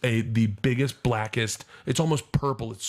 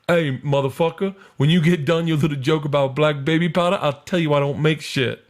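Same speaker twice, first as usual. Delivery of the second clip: a touch louder, tough heckler voice; 4 semitones higher, 6 dB louder than usual. Retold or imitated. Comic voices a Miami heckler, mildly loud. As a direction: call out from the crowd like a heckler.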